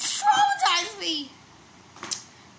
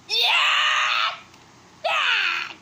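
high cheering shout; excited cheer; 9 semitones higher than usual. Real, not acted.

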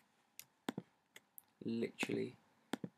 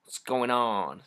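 goofy, slightly American-sounding voice; dopey mock-American drawl; stupid stage voice; much slower than usual. Shown as a demonstration. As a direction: do a silly American-tinged stage voice. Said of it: "whenever I do a stupid voice".

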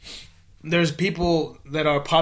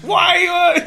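high loud squeaky why; squeaky falsetto; 7 dB louder than usual. Pretend. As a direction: shriek it up in falsetto. Laughing mock outrage after impression.

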